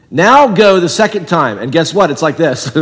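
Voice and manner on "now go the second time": higher, louder commanding voice; God's command. Retold or imitated. Preacher voices God sending Jonah again, commanding. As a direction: order Jonah out with authority.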